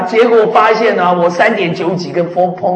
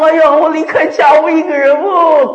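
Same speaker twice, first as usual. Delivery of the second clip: higher, moaning self-pity; mock sorrow; 9 semitones higher, 4 dB louder than usual. Preacher mimics lonely person, lightly mournful. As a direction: sigh it out like a homesick crier.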